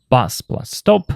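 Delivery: slow, each noun separate; nouns said apart. Shown as a demonstration. Teacher shows learners the two nouns, said slowly apart. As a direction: spell out the two parts slowly. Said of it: "For example".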